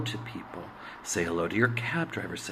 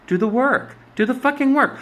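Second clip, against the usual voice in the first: high and loud, pushing hard; emphatic urging; 13 semitones higher, 6 dB louder than usual. Real, not acted. Vlogger urging her viewers to face their past, loud and high. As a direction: drive it home like a tough-love coach.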